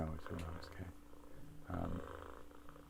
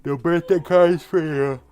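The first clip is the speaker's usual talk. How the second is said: high, slow mocking taunt; mocking sing-song; 10 semitones higher, 13 dB louder than usual.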